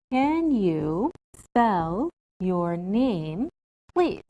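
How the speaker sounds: very slow, each word spaced out; slow careful model. Shown as a demonstration. Teacher models a polite question slowly for students. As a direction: model it slowly for the class to copy. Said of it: "So we can say".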